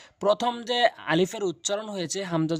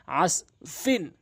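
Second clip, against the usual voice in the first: আস ফিন read slowly, syllable by syllable; much slower than usual. Shown as a demonstration. Teacher sounding out a word for students, slowly. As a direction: spell out আস ফিন slowly for learners. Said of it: "এখানে আইন দিয়ে সদকে ধরা হয়েছে".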